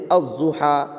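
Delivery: "الضحیٰ" said az-zuha, doubled z; silent lam. Shown as a demonstration. Teacher showing a sun letter, "الضحیٰ" with silent lam. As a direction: skip the L in "الضحیٰ", lean on the Z. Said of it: "مگر لام کا تلفظ نہیں ہوگا".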